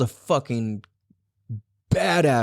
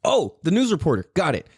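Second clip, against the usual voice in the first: ordinary delivery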